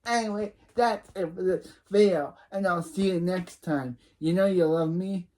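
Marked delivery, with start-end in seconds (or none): 4.2-5.3 lightly voiced teasing narrator; Gossip Girl voice. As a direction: purr the sign-off like a gossip columnist. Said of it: "use my Gossip Girl voice".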